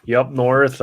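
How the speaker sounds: "Yup, north" as said up here; local northern pronunciation. Shown as a demonstration. Showing how locals up here say it, regional pronunciation. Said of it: "up here we say".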